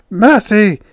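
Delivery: high, loud cry for mercy; distressed alien shriek; hissed plea. A narrator's reading. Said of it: "Yith hissed".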